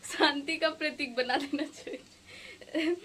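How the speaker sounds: slow words through a laugh. Real, not acted. Joking that the teacher should symbolise peace, laughing. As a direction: say it while giggling, drawn out. Laughing at her own suggestion.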